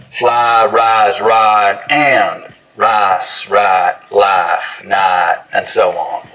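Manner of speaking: fly, rise, ride, rice, life, night all with long ah; smooth every I in ride and rice; full price smoothing. Shown as a demonstration. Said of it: "we're gonna smooth them all".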